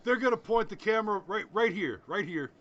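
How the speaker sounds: a light send-up of a politician on stage; Donald Trump. Retold or imitated. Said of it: "he said".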